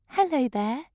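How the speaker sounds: light high tinkling greeting; a butterfly chimes a hello. Acted. Inspiration greets Goldie, light tinkling voice. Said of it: "it tinkled".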